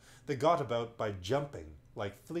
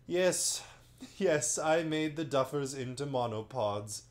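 laughing magician; 3 semitones higher, 4 dB louder than usual. Acted. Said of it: "He, too, was laughing".

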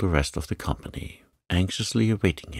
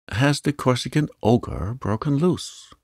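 crying out; 8 semitones higher, 3 dB louder than usual. Acted. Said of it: "cried a third".

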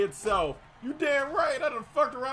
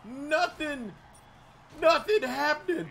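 furious rant; 3 semitones higher than usual. Real, not acted. Gamer cursing out Kansas City after a play, furious rant. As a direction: rant in a rage, landing hard on each insult. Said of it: "I've never been so mad".

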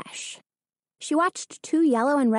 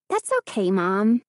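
brightly. Acted. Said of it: "Hannah replied brightly".

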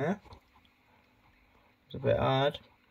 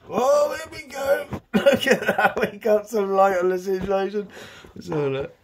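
higher, louder wildlife-presenter voice; mock documentary narrator; 6 semitones higher, 4 dB louder than usual. Owner revealing his hedgehog to camera, mock narrator voice. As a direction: announce the reveal like a nature film.

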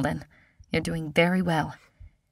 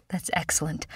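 relieved; 3 semitones lower, 6 dB quieter than usual. Acted. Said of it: "sighs with relief".

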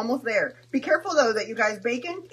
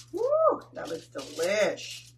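impressed woo; much slower than usual. Real, not acted. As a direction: admire the ravioli, then savor it. Admiring dish.

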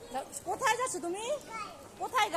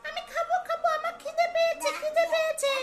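voicing the dog; 10 semitones higher than usual.

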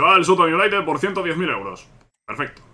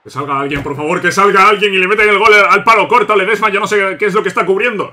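louder exasperated pleading; breakneck goal commentary; 3 semitones higher, 6 dB louder than usual. Real, not acted. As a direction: beg someone to come out. Pleading during goal concession. (comentario frenético y desesperado)

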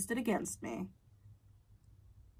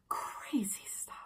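slow, breathy whisper near tears; hushed whisper; 3 semitones higher, 5 dB quieter, much slower than usual. Real, not acted. Telling viewers about her stalker, a slow whisper. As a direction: let it fall to a whisper. Aside on her own story.

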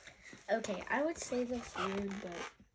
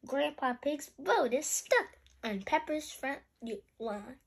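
put-on animated read-aloud for children; lilting picture-book narration; story reading; 5 semitones higher than usual. A narrator's reading. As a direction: read brightly to a young listener.

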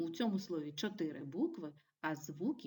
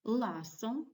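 "Ласо" with the first syllable stressed and higher; 4 semitones higher, 3 dB louder than usual. Shown as a demonstration. Teacher gives examples of first-syllable stress, "Ласо" stressed at the start. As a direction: lean on the opening syllable of "Ласо". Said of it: "з наголосом на першому складі".

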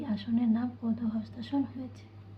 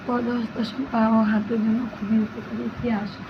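loud, clear dictation voice; loud reading; 4 dB louder than usual. Acted. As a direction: read it out loudly to the class.

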